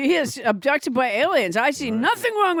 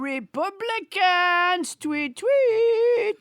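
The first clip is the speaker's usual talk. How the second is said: slow, higher puppet Trump chirping tweet tweet; French Trump mock tweet; 5 semitones higher, much slower than usual. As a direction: draw out the threat like a pompous puppet. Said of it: "French Trump".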